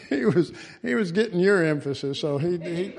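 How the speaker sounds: chuckling through the words; laughing while telling. Real, not acted. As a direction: keep laughing as you talk.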